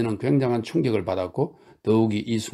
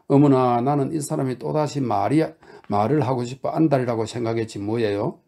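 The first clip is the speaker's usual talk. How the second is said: anxious exclamation; 2 semitones higher than usual. Acted. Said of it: "초조한 목소리로 소리쳤다".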